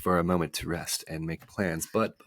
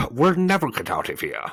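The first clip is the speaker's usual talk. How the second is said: loud moan, pitched up then falling; 6 semitones higher, 7 dB louder than usual. A narrator's reading. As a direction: moan in despair as the humbug. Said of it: "the humbug moaned".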